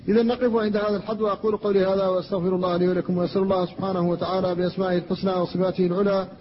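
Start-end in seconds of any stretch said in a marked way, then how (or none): 1.2-6.3 brisk formulaic closing supplication; closing prayer. Acted. Preacher closes the lesson with a prayer. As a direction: rattle off the closing dua.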